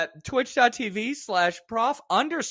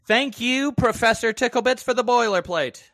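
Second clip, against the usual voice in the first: louder, higher sponsor-line read; reading the credit line; 4 semitones higher, 4 dB louder than usual. Shown as a demonstration. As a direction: deliver the full thank-you line on request, projected. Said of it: "give me the whole line".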